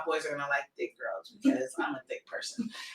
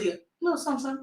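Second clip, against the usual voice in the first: put-on middle school boy voice; 5 semitones higher, 4 dB quieter, much faster than usual. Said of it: "this middle school voice".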